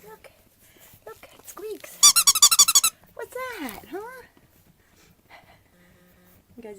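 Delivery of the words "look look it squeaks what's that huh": light up the toy for them; puppy talk. Real, not acted. Owner showing puppies a squeaky toy, high coo.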